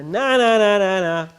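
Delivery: mocking chant; nasty taunt. Shown as a demonstration. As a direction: sneer it at him. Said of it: "Do it to him".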